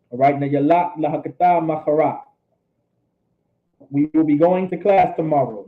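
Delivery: ordinary talk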